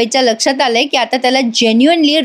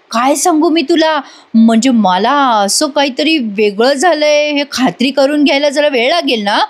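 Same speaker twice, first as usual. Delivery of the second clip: teasing Kala; 2 semitones higher than usual. Acted. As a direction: needle him with mock politeness. Narrator voices Kala teasing Chandekar.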